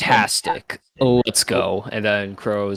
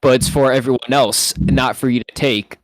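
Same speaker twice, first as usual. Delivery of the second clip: intimidation; 3 dB louder than usual. Acted. In-character threat to intimidate the Jawas.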